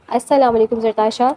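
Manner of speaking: soft greeting. Acted. Ubaid greeting Zartasha from the car, soft and low. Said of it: "آواز نرم تھی".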